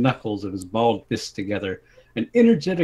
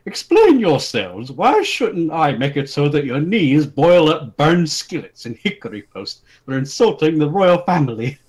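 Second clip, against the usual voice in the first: stern king; 5 semitones higher, 6 dB louder than usual. Acted. King confronting the two men, stern and loud. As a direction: command them sternly. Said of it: "sternly stamped his boot".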